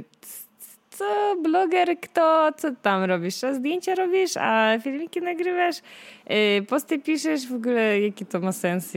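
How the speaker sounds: mock the doubters, pitch up; mocking disbelief. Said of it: "ludzie na to patrzyli jako tak".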